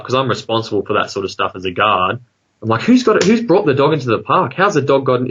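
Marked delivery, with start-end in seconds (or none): 2.8-5.3 sudden high alarmed cry, easing down; alarmed outburst. Retold or imitated. Guard alarmed at a barking dog in the park, high startled cry. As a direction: blurt it out in shocked disbelief.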